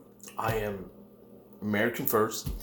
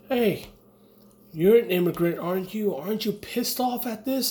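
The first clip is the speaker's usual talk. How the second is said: higher, louder imitation of a nosy questioner; pushy stranger; 10 semitones higher, 4 dB louder than usual. Anti-Trump diner accosting him over the news, pushy. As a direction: mimic someone accosting you, pitched well up.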